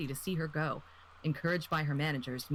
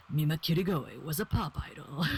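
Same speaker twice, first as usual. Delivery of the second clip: serious trailer voice. Retold or imitated. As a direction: announce it like an epic film trailer. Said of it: "the super serious trailer voice".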